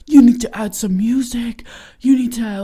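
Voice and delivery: whispering, imitating a gentle radio host; mock soothing whisper. Sister imitating her brother's podcast advice, mock whisper. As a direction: hush it like you're mocking a soothing voice. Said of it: "a softer voice, like, a more soothing voice".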